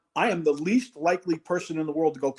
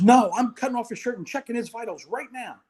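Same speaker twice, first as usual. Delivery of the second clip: higher, insistent mock yell; retold yelling; 5 semitones higher than usual. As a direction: imitate an agitated medic insisting. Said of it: "she's yelling and screaming".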